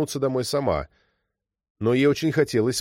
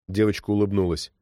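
usual speaking voice

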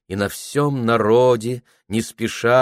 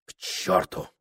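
softer, voiceless curse; whispered curse; 5 dB quieter than usual. A narrator's reading. Prokhor muttering to himself, whispered. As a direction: hiss it under your breath. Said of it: "говорил он сам себе".

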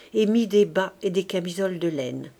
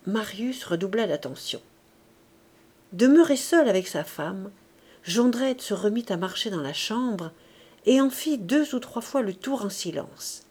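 ordinary delivery, nothing marked

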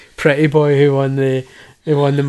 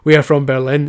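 louder mock German accent; 5 dB louder than usual. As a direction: imitate a thick German accent. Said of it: "with the thick German accent".

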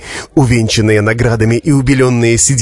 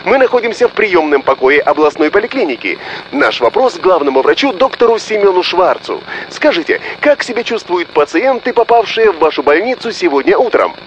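bright, higher news reporter delivery; 8 semitones higher than usual. Acted. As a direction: read it like a live broadcast report. TV reporter speaking on air.

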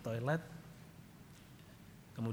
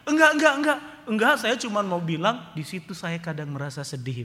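high, nervous denials; scared backpedaling; 5 semitones higher, 7 dB louder than usual. Retold or imitated. Father backpedals nervously in front of the soldier. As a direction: squirm out of it fast. Father denies, excuses himself.

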